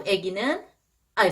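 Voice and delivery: normal talking voice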